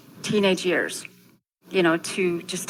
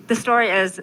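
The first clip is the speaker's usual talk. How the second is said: ordinary talk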